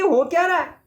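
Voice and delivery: put-on anxious girl asking where she is; girl lost at night, lightly scared; frightened girl. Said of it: "लड़की कह रही है".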